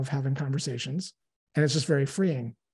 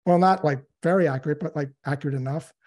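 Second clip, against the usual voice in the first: playing a prospect; 5 dB louder than usual. Role-played prospect answer.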